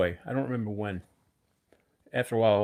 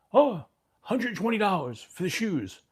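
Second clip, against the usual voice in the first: imitating a Brooklyn shoe seller's heavy Jewish accent, higher and slow; 10 semitones higher, 4 dB louder, slower than usual. Shoe store owner naming his price, mock Jewish accent. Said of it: "he had a very big accent".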